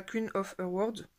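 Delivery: a slow, slightly clumsy English accent on Queen of Her World. Shown as a demonstration. Naming her coloring page's title in an English accent. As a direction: try an English accent on the title, a bit slowly. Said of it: "mon accent anglais".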